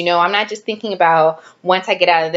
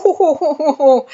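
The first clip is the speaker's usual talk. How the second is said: 1 laughing ooh; 10 semitones higher, 5 dB louder than usual. Retold or imitated.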